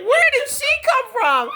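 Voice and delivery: high-pitched mock bewilderment, laughing; shocked ex-husband. Imitating her ex-husband meeting her other side, shocked. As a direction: act out his stunned question. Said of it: "He was just shocked".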